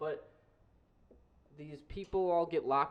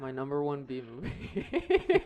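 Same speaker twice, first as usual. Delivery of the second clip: suspenseful announcement; much slower than usual. Acted. Dramatic build-up before reveal.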